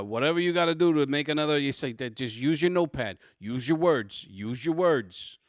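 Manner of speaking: lightly played New York Italian cop. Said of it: "I went New York Italian on this one".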